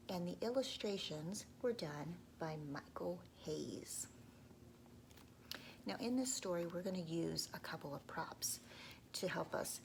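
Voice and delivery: soft, unvoiced storytelling; whispered narration. A narrator's reading. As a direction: whisper to draw children in.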